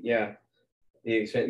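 ordinary delivery

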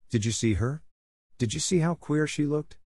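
high-pitched, eager questioning; breaking out. A narrator's reading. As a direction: burst out with schoolgirl gossip. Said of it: "Jessie broke out".

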